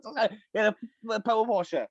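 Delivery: high, laughing, caught-out yeah; sheepish laugh. Real, not acted. Caught out misnaming the power washer, sheepish laughing. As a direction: giggle through the correction.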